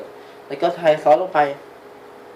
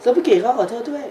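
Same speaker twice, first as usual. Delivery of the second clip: put-on high, louder little kid voice; child voice; 8 semitones higher, 4 dB louder than usual. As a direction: apologize like a small child. Dubbing the child's lines. (เสียงเด็กเล็กขอโทษเสียงแหลม)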